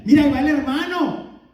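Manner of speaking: fuerte y admirado, señalando con orgullo a un buen hermano; "Mira, ahí va el hermano" dicho fuerte, con admiración. Pretend. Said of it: "Y no de una manera mala". (elogio fuerte y admirado)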